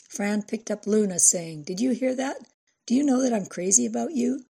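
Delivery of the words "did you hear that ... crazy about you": put-on high sing-song cooing at a baby; high playful baby talk. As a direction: coo it to the baby, light and quick.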